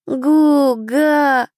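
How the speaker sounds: put-on a small child answering with joy; toddler babble. A narrator's reading. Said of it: "ответил маленький, радостно".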